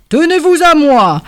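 appel un peu plus aigu et fort; voix du Père Noël secourable. A narrator's reading. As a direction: rassurer en tendant la main. Le Père Noël sauve la souris. (le Père Noël aide la souris épuisée)

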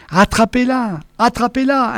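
high pleading order; high desperate plea; imploring. A narrator's reading. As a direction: beg them to catch it. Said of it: "implorait Némur".

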